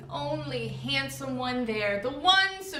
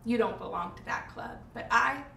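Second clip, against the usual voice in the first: tragic heroine sorrow. Acted. Resigned lament.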